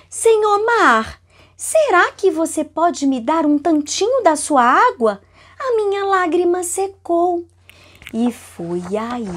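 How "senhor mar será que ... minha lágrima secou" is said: Lacriminha's plea. Acted. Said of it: "falou assim".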